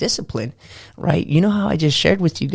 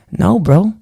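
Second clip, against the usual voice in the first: emphatic no; 5 semitones higher, 6 dB louder than usual. Real, not acted. Scolding the lazy excuse.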